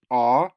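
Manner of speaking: "ah" loud and open, on its own; open "ah" vowel. Shown as a demonstration. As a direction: sound out "ah" as in "cot". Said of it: "ah versus aw".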